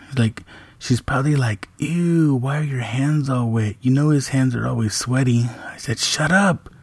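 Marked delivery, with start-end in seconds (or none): 1.8-5.4 mocking sister. Daughter mocking brother retold. 6.0-6.7 teasing shut up. Retold or imitated. Dad hushing daughter.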